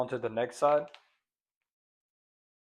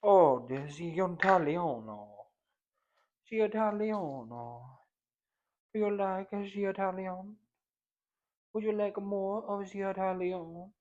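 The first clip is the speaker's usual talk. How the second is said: high, slow playful voice; slow high flirty voice; high put-on voice; 7 semitones higher than usual. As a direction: woo the seasoning in a high voice.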